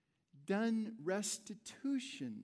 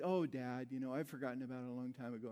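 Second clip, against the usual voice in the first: gentle reassurance; 6 semitones lower, 4 dB quieter, much faster than usual. Retold or imitated. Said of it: "And she said".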